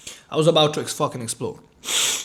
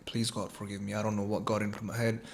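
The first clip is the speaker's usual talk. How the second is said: tearful prayer; 3 semitones lower, 4 dB quieter than usual. Retold or imitated. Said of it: "tears running down my face".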